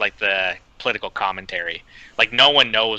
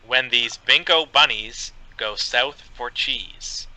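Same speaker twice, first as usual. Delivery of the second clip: slow deadpan reading; slower than usual. Shown as a demonstration.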